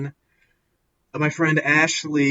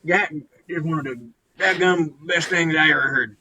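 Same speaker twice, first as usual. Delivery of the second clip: higher-pitched hammed-up redneck twang; redneck accent; 4 semitones higher, 3 dB louder than usual. Podcast host raving about an EP, mock redneck accent. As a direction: play an amazed redneck, American country accent. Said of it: "I'm trying to be redneck".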